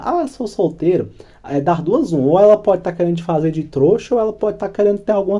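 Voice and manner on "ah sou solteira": slow, higher coy reply; inviting tone. Shown as a demonstration. Woman hinting to a suitor she's available, coy and slow. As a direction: draw it out as a flirty hint. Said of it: "Agora, quando ela fala".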